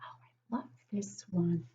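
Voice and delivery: softly whispered excitement; whispered delight. Acted. Teacher sharing a favourite page with kids in a whisper. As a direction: whisper it like a secret treat.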